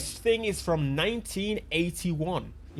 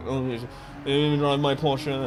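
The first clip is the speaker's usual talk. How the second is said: lower, lightly voiced old man; a hint of a contented old fellow; 4 semitones lower than usual. Driver playing old man savouring his Porsche, lightly put-on voice. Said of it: "I'm not an old man until".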